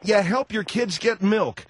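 drawn-out, mocking agreement; slow scoffing repeat; sarcastic echo. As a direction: throw the plea back slowly, disbelieving. Host scoffs at caller's sob story.

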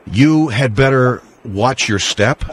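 slow, menacing threat; ominous warning. Retold or imitated. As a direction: warn them slowly and darkly. Host voicing the implied threat.

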